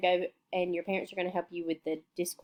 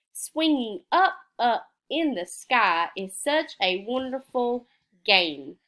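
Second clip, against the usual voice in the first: sing-song read-aloud; 2 semitones higher than usual. Shown as a demonstration. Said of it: "fill in the word".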